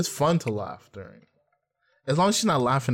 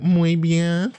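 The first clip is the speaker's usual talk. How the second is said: mock Spanish quip; 5 semitones higher, 4 dB louder than usual. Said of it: "I'm like".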